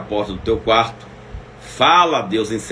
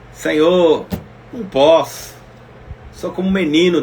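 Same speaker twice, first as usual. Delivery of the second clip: pleading Jeremiah; 6 semitones higher, 3 dB louder than usual. Acted. Voicing Jeremiah's protest.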